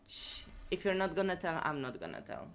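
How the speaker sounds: low, soft conspiratorial hush; hushed secret. Pretend. Streamer swearing viewers to secrecy, mock-hushed. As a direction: drop right down as if sharing a secret.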